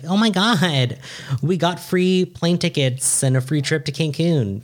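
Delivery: excited retelling. Retold or imitated. Partner announcing a free trip, excited. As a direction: imitate an excited partner, stretching the words.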